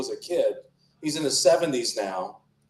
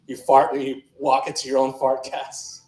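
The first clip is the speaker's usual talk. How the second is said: laughing through the punchline; words breaking up with laughter. Real, not acted. Comic to the crowd, cracking up at his own fart joke.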